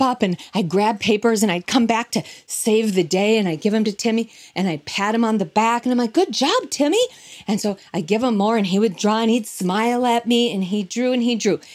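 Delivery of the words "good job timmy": patronizing praise. Retold or imitated. Patronizing pat on the back.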